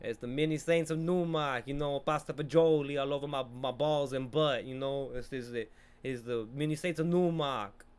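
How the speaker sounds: put-on botched Italian accent sliding toward Jamaican; bad Italian accent. Viewer riffing on the film title, bad Italian accent. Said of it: "I don't even think that's an Italian accent".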